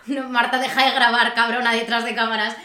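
a hint of a playful scolding; mock telling Marta to stop filming; mock protest. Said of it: "no en plan".

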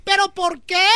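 the other inmates can't believe it; imitating the other women. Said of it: "Y le dijeron las demás". (las demás presas, incrédulas y agudas)

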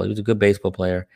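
ordinary talk

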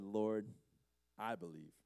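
the healed man kneeling before Jesus, confessing softly; hushed confession. Acted. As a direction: breathe out a quiet, humble belief.

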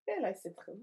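bad German that comes out Russian; lightly put-on Russian accent. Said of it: "it's stuck in Russian now".

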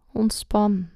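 right in your ear. Acted. Whispered self-instruction in meditation.

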